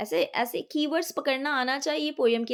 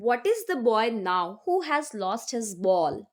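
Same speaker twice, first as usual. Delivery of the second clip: slow, measured reading of verse; poem recitation; much slower than usual. Acted. Teacher reading a poem extract to the class, slow recitation. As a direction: read each line slowly and deliberately, like a recitation.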